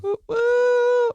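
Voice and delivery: high excited whoop; festive whoop. Acted. Host whoops in high festive excitement. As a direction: cheer it like a party.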